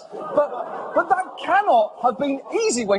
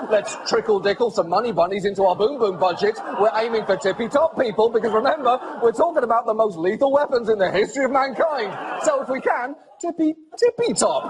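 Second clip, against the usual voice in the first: mock baby talk. Host mocks Trump's baby talk.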